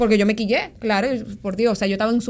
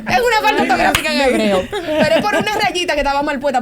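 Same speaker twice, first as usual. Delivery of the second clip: laughing, louder and higher; real laughter through the words; 5 semitones higher, 4 dB louder than usual. Real, not acted. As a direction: still giggling at the mistake. Laughing at the misspelled tattoo.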